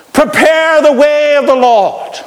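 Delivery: high, drawn-out prophetic cry. Acted. Preacher acting John's call among the Xerox machines, crying out. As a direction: proclaim it like a voice in the wilderness.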